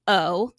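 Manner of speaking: O said as its name, long oh. Shown as a demonstration. Teacher to kids, long O as in its name. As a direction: stretch the long O sound. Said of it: "That's the long sound".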